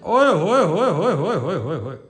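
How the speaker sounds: slow, low drawn-out oye hoye; sing-song teasing. Acted. Son teasing his mother, slow warbling oye hoye. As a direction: tease her in a wavering sing-song.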